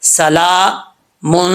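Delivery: سَلَامٌ with the لا held very long; slow demo of سَلَامٌ; long alif. Shown as a demonstration. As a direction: stretch the a of سَلَامٌ for one alif. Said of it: "ایک الف کی مقدار اس کو لمبا کیا جائے گا".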